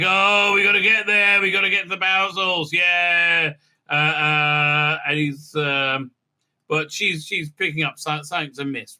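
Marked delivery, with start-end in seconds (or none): 0.0-3.5 mock eager sidekick. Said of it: "he's like".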